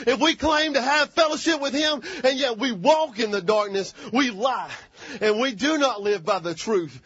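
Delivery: impassioned, rolling sermon delivery; preaching. Real, not acted. Preacher telling congregation God is light, preaching. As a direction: drive each phrase home from the pulpit.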